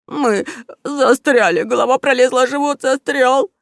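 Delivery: sighing heavily. Acted. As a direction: moan it as if stuck fast. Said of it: "тяжело вздохнул усатый грабитель".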